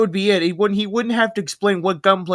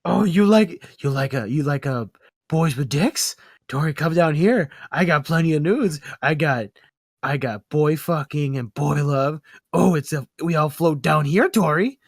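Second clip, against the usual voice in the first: Pennywise voice; 3 semitones lower than usual. Retold or imitated. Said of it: "I can't take it, that voice".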